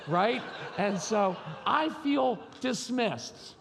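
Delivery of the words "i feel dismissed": hammed-up wounded cry, slow and high; mock over-emotive. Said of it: "I can emote over everything".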